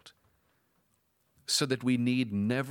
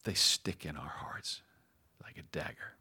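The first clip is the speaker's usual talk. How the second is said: preacher's hush; 6 semitones lower, 4 dB quieter than usual. Real, not acted. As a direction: whisper it, low and heavy, like a wound. Preacher hushes on a painful image.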